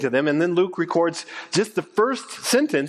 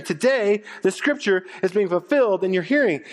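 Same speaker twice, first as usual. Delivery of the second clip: higher, livelier retelling; lifted restatement; 4 semitones higher than usual. Shown as a demonstration. Preacher restating the line for the congregation, lifted and lively. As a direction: say it again brighter, explaining. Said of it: "What is Jesus saying?".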